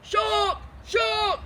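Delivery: loud, high cries of panic; panicked shouting. A narrator's reading. Big Bill sees the dragon and yells in panic. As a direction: yell the wrong animal in fright. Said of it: "and he shouted".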